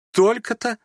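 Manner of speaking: высоко и громко, откровенно удивлённо; удивляется вслух без стеснения; громкое удивление. A narrator's reading. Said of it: "громко и откровенно удивилась Аглая". (громко и откровенно удивлённо)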